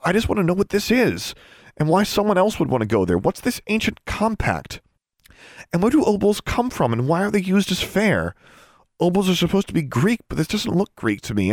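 high-pitched rush of questions; quick assurance. A narrator's reading. Girl pressing elves about obols, quick and insistent. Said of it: "she assured him quickly".

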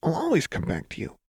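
high, brittle cheer through a smile; Jinx. A narrator's reading. Jinx promising Lux she'll return, brittle smile. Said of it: "said with a wide, brittle smile".

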